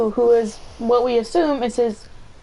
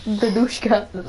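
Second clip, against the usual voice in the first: put-on Russian accent; much slower than usual. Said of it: "like if you're trying to make an insult in a Russian accent".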